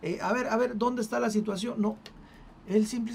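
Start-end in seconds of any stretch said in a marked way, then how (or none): 0.0-1.8 hasty fussing reassurance. Pretend. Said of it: "él no se apresuró a decir".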